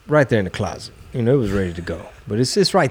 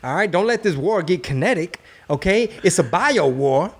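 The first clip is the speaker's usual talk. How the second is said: much higher, nervous pleading voice; hammed-up pleading; 7 semitones higher than usual. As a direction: beg the intruder to hold on. Acting out talking to intruder.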